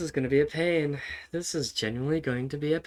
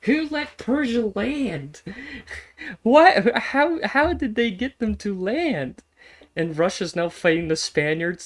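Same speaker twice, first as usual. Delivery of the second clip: much higher, louder, slow disbelieving yell; incredulous outburst; 9 semitones higher, 7 dB louder than usual. Real, not acted. Streamer shouting at chat as Persia lands, in shock. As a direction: shriek it out in real disbelief.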